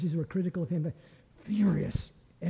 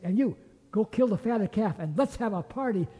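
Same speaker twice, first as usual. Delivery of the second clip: louder, higher, calling for a feast with glee; joyful orders; 4 semitones higher, 3 dB louder than usual. Acted. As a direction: announce the party like a delighted father. Father orders the feast, overjoyed.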